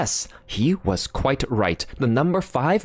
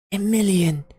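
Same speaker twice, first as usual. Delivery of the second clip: stunned repeat; 10 semitones higher than usual. Acted. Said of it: "he repeated".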